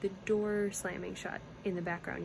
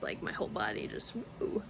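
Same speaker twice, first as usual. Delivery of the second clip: shiver of delight; 10 semitones lower than usual. Real, not acted. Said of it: "Sorry, I just".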